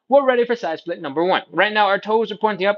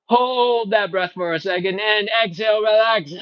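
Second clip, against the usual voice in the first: guided breathing; 5 semitones higher than usual. Shown as a demonstration. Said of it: "like some meditating yoga breaths".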